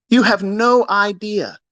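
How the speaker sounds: drawn out slowly, word by word; slowed repeat. Real, not acted. Repeating his warning to viewers, slowly. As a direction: let each word land slowly. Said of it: "You have no idea what's coming".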